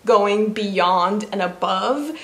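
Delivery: slowly says going beyond and above, the words in the wrong order; flipped phrase. Real, not acted. A YouTuber slowly garbling her thanks to viewers. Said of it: "Above and beyond is the phrase".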